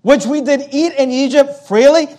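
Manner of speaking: doubting echo, lifted on "freely"; incredulous echo. Acted. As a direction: quote it back as a rising question. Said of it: "Is that really the word".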